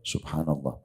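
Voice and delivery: low, very soft tasbih; quiet dhikr. Shown as a demonstration. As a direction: say it softly, as private remembrance. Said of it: "kita zikir pelan sudah cukup". (tasbih pelan bernada rendah)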